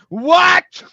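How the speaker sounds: hammed-up crying shout of confusion; wailing what. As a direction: wail it like a startled baby. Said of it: "He's like".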